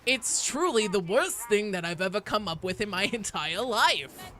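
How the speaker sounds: put-on old Valley Girl lady. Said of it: "The old Valley Girl lady voice".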